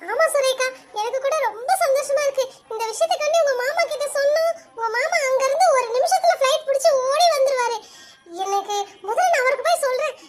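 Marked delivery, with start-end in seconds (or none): 2.7-10.1 high, giggling through the words; bubbling over with happy laughter; mother hears of the pregnancy, laughing excitedly; laughing with joy. Acted.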